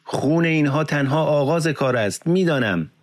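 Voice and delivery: high-pitched impassioned outcry; narrated shout, pitched well up; crying out. A narrator's reading. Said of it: "فریاد کشید".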